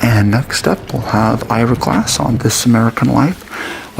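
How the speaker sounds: radio presenter. Acted. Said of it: "Why do they talk like this".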